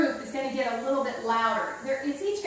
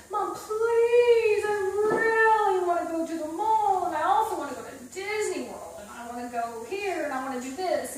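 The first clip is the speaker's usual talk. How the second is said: emotional plea; 5 semitones higher than usual. Shown as a demonstration. Teacher to student, hammed-up begging child. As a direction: beg like a desperate child, then wind down. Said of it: "Then you have more emotion in it".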